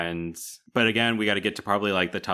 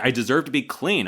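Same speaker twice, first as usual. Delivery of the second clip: mock fiery protest, louder and higher; fired up; 6 semitones higher, 5 dB louder than usual. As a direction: push it out with heated pride. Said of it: "she's fired up here".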